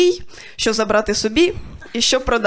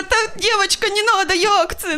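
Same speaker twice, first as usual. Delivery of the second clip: high, outraged squeak of disbelief; shocked disbelief; 8 semitones higher than usual. Retold or imitated. Mimicking the guard's words back at him, high and stunned. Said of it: "Я така".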